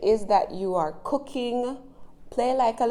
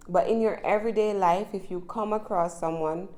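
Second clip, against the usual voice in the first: brisk, fast everyday pace; regular conversational speed. Shown as a demonstration. Teacher showing learners how fast people talk in everyday life, at quick regular speed. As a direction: speed up to natural talking pace. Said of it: "That was my regular speed for a second".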